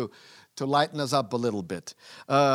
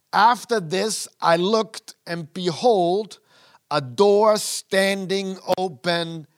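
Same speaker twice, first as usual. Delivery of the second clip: slow, louder, higher proclamation of the vision; awed scripture reading; 4 semitones higher, 5 dB louder, slower than usual. Acted. Preacher reads Revelation to the congregation in slow awe. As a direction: read it out like a revelation.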